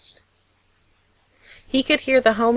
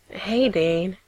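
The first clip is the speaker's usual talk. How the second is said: gentle murmur. Acted. Father comforting his son in a hug, gentle murmur. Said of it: "he murmured, gentle".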